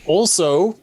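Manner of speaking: a loud, rising also to grab attention; loud rising appeal; emphatic also. Pretend. Player pressing the NPC, loud and emphatic.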